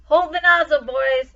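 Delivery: loud call to his men; called order. A narrator's reading. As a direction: bark the order over the fire noise. Mose orders his men at fire.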